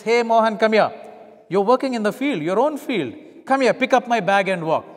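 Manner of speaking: loud, commanding shout at a farmer; barked soldier's order. Acted. Roman soldier shouting orders at Mohan in his field, loud and commanding. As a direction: order him over like an occupying soldier.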